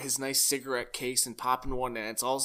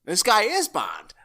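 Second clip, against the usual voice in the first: sultry voice; 3 semitones higher, 4 dB louder than usual. Retold or imitated. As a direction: purr it like a swooning fan. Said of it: "You get to hear that sultry voice".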